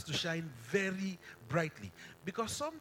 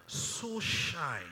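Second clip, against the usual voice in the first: So held long and weighty before shine; stress on SO. Shown as a demonstration. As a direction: lean hard on the word So. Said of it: "So there's an emphasis".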